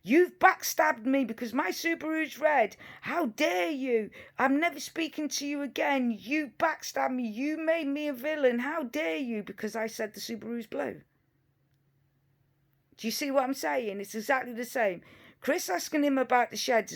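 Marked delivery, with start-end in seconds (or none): 0.0-11.0 hammed-up wounded outrage, pitched higher; mock indignation. Imagining Don's reply to a Subaru question, mock indignation. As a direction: act betrayed, drawing out each accusation in mockery. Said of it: "Would he get angry and say".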